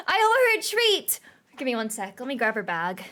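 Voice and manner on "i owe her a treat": high, loud gasp of remembering; startled, pitch leaping up; sudden realisation. Real, not acted. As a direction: blurt it out excitedly. Sudden remembering about the cat.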